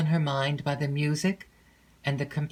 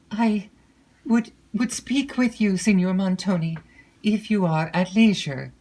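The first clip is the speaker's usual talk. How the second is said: nervous, stammering and higher; faltering; 4 semitones higher, 4 dB louder than usual. A narrator's reading. Emily, frightened, asks Montoni to hear her, faltering. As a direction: falter out the request timidly. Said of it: "in a faltering accent".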